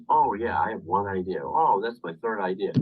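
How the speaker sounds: punchy, animated presenter delivery; animated example. Shown as a demonstration. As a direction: act out an enthusiastic speaker. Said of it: "move your body as you talk".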